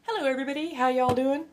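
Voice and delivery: put-on high, loud Inabathri accent greeting. Greeting the chat, a high bright Inabathri accent hello. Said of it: "slipped out of my Inabathri, uh, accent".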